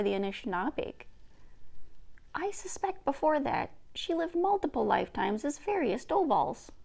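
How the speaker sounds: lightly voiced grandmother telling old history; a hint of an old woman recounting, gently; Nokomis.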